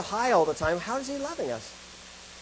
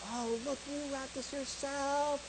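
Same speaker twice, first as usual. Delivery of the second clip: making a big deal; 6 semitones higher, 10 dB quieter, slower than usual. Retold or imitated. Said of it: "makes a big deal about".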